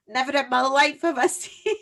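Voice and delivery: hammed-up ancient Scottish fairy; ninety-five-year-old fairy, amazed at baking, in a Scottish accent. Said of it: "That was my fairy".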